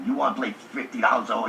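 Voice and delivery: fast, disbelieving repeat of the bet; incredulous echo. Retold or imitated. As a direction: rattle it back in disbelief. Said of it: "I said".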